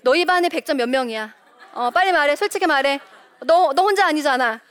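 acted accusatory demand; interrogating mother. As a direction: grill the child like a suspicious mom. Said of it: "우리 엄마들 어떻게 해요?".

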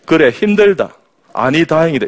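blunt southern husband, high and loud; southern Korean dialect. Retold or imitated. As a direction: imitate a curt southern Korean reply. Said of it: "아래쪽에서 오신 분들이 이렇게 이야기합니다". (무뚝뚝한 남쪽 사투리 흉내)

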